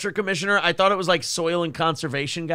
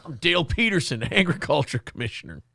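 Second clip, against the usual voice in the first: mock campaign ad. Parody of yelling candidate.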